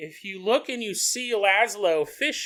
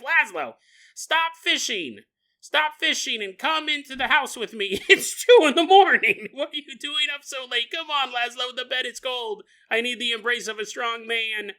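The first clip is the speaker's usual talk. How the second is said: higher, coaxing mock nag; wife calling Laszlo to bed, lightly higher; nagging wife; 5 semitones higher than usual. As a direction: call your husband in from fishing. Ghost wife calls husband.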